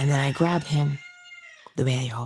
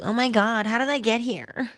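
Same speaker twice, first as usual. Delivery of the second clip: high, startled oh my God; panicked wondering; 7 semitones higher than usual. Retold or imitated. Mocking someone suddenly lost in their own life, high and startled. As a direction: play a stunned person who lost their way. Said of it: "As opposed to".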